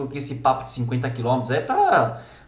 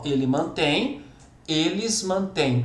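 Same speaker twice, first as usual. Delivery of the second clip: slow demonstration; slower than usual. Shown as a demonstration. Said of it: "Olha como a língua aqui faz todo sentido".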